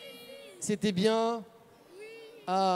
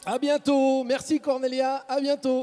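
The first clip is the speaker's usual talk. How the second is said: cheerful goodbye; 6 semitones higher, 5 dB louder than usual. Real, not acted. Sign-off calling to children.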